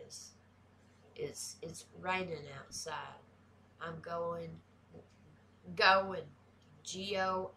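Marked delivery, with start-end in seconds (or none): 1.6-3.2 "raining" said as "rainin'", Southern style; silent G. Shown as a demonstration. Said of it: "the G is always silent". 3.8-6.2 "going" said as "goin'", Southern style; silent G. Shown as a demonstration. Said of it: "the G is always silent".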